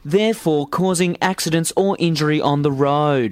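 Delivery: a touch of a formal instructor; lightly voiced stern instructor; driving instructor voice. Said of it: "It's my driving instructor voice".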